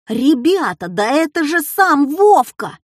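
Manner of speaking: put-on high-pitched boy's outcry; sudden excited yell. A narrator's reading. Classmate Петька revealing the secret to everyone, excited yell. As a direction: burst out with the discovery. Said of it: "вдруг завопил Петька".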